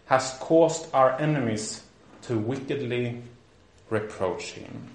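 measured phrases with deliberate pauses; formal quotation reading. A narrator's reading. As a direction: read it out slowly, fading at the end. Reads a historical quotation aloud.

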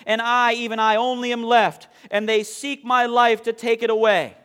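loud, measured King James reading; booming Bible reading from the pulpit; scripture reading. Acted. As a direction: proclaim the verses to the congregation. Reads scripture aloud to congregation.

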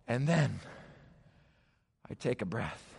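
low, soft, with long pauses; hushed relief. A narrator's reading. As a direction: let the tension drop into a quiet exhale. Rescue climax, pause to breathe.

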